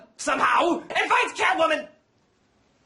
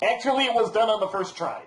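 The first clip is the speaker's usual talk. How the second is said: masked villain Bane; 6 semitones lower than usual. Acted. Bane boasting about his prison, masked villain voice. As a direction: lower put-on villain voice, pompous.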